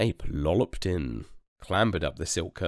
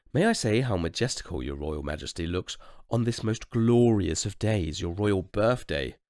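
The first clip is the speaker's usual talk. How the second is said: creepy painter; 4 semitones higher than usual. Acted. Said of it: "creeped the royal portrait painter".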